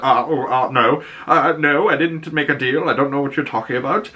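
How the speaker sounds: flustered denial. Retold or imitated. The speaker's acted flustered denial.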